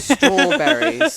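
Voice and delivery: loud, high, drawn-out mock British; Austin Powers. Host copying friend's word, hammed-up British Austin Powers voice. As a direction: stretch it out in swinging hammed-up British. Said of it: "I sound like Austin Powers".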